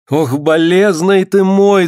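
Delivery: high, slow keening; acted peasant lament. A narrator's reading. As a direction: wail tenderly over her man. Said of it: "запричитала Алёна".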